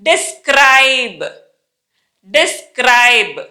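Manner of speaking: drawn-out model with a distinct final B; tight-lipped final B. Shown as a demonstration. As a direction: DESCRIBE stretched, closing firmly on B. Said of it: "lips చాలా గట్టిగా బిగిచ్చి పలుకుతాం".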